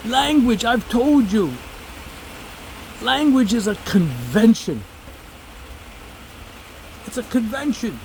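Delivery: a hint of the patient professor; imitating professor. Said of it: "he'd say".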